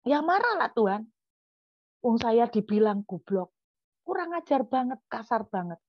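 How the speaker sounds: re-enacted indignant retort, pitch jumping up; angry protest. Preacher answers God about the insult, indignant mock anger. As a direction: protest as the wronged party. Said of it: "Kenapa kamu marah?".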